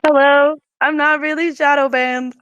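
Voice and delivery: slightly hoarse, halfway sick voice. Real, not acted. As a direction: talk through a sore throat. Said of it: "My halfway sick voice again".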